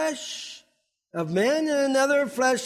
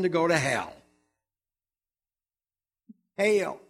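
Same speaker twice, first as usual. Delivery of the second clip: brimstone preacher; 6 semitones lower than usual. Real, not acted. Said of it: "I sound like a really brimstone preacher this morning".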